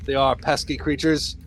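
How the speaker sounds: lightly voiced hero counsel; advising hero. Hero advises party on pesky rats, theatrical.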